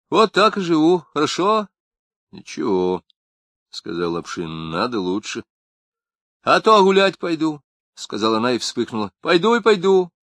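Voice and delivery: defiant wife. A narrator's reading. Wife answers Lapshin defiantly, high. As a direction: throw it back defiantly.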